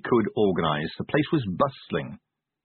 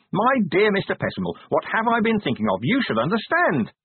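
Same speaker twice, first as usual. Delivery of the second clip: high-pitched, effusive welcome; over-hearty, high exclamations; shouted false enthusiasm; 10 semitones higher than usual. A narrator's reading. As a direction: gush grandly, pitched well up. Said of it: "he shouted".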